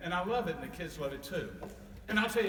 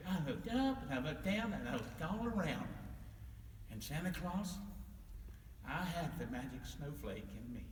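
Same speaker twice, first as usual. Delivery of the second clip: hushed reveal; 2 semitones lower, 7 dB quieter than usual. Acted. Little snowman reveals secret.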